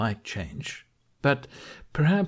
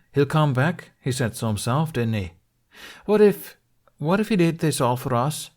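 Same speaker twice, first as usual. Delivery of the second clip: put-on higher, louder, pleading old friend; Gobber, pleading; 6 semitones higher, 5 dB louder than usual. A narrator's reading. Gobber urging the grieving chief to hope, pleading and higher. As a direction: push the hope harder, voice climbing on what if.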